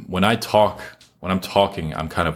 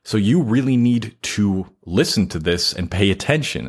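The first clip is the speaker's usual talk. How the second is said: raised, insistent point-making voice; emphatic; 3 semitones higher than usual. Shown as a demonstration. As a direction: push it so they have to listen. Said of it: "I'm going to talk like this".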